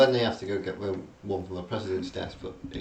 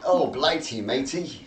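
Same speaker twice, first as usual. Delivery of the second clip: mock drunk English accent, high and loud; bad English accent; 7 semitones higher, 8 dB louder, slower than usual. Nicolas Cage faking a drunk English accent, hammed-up. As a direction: ham up a fake English accent, pitched up and loud. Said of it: "purposely doing a bad English accent".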